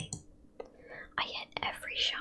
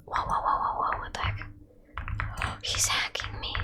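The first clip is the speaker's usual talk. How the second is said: startled whisper; 5 dB louder than usual. Real, not acted. Sudden shock in game fight.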